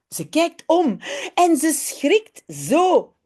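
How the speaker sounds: lively storybook read-aloud; children's story reading. Acted. Reads Dutch children's story aloud. (lecture animée d'un conte pour enfants)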